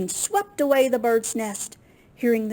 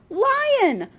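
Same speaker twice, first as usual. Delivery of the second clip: high, loud excited call; enchanted little bird calling out; enchanted bird chirp; 6 dB louder than usual. A narrator's reading. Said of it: "the bird chirped, enchanted".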